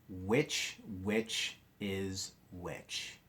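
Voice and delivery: "which is which" said slowly, each word spaced; slow and deliberate. Shown as a demonstration. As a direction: draw out "which is which" like a memory rhyme. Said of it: "So here's my sentence".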